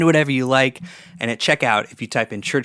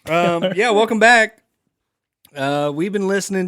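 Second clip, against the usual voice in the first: put-on Southern accent; 6 semitones higher than usual. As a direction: welcome them back in a Southern accent. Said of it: "talk in a Southern accent".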